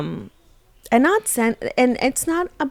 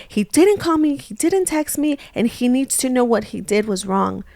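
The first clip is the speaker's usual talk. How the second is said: mock angry; 3 semitones higher than usual. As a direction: list his offences like an annoyed wife. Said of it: "you're here all angry".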